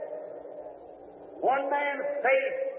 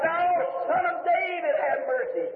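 crying out; 3 semitones higher, slower than usual. Retold or imitated. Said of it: "he cried out".

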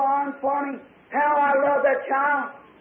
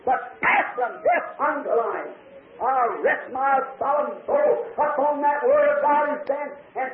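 fervent preaching. Acted. Preaches scripture to congregation.

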